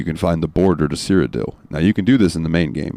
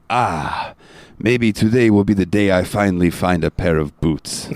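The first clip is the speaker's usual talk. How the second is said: lightly voiced Khajiit companion; a hint of wistful character voice; Inigo. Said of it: "and Inigo goes".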